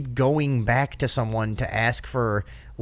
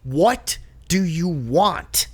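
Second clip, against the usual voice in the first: high, drawn-out exasperated plea; incredulous; 7 semitones higher, slower than usual. Retold or imitated. To festival people bothering him, incredulous. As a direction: stretch each word in mock disbelief. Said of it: "looking at people incredulously".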